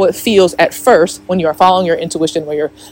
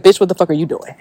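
whispered mock cussing; faster than usual. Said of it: "Jen Sincero was cussing me the fuck out".

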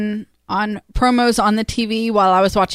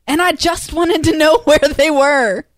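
laughing; 4 semitones higher than usual. Real, not acted. Laughing while retelling.

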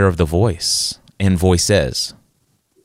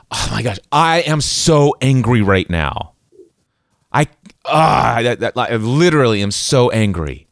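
exasperated inner voice, mock fuming; acted anger. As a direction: vent in mock anger, leaning on SO. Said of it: "this burning rage of anger".

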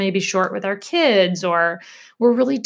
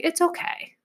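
gentle self-talk; 2 semitones higher than usual. Shown as a demonstration. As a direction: say it kindly like comforting a friend. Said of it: "insert something nice".

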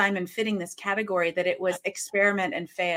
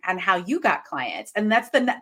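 ordinary talk

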